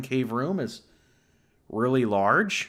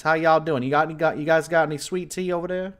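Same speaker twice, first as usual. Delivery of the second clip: put-on Southern accent; 5 semitones higher, 3 dB louder, faster than usual. The streamer greets his Texas viewers in a mock Southern accent. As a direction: play up a Southern local accent. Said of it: "when I talk like this".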